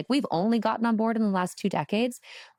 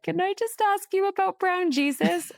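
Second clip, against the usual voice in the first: much higher, giggly and incredulous; laughing question; 13 semitones higher than usual. Retold or imitated. Asking her host about the picture, half laughing. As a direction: ask through barely held-back laughter. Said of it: "I was kinda laughing".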